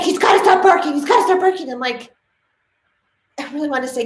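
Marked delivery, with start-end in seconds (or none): 0.0-1.7 imitating an insistent woman, higher and in a put-on voice; insistent dog owner. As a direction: repeat it stubbornly in a mock voice.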